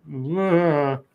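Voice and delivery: imitated drawn-out "ugh"; a mock trailing, muddled groan; mimicked garbled groan. Host mimicking Biden losing his thought, mock muddled groan. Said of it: "It's like".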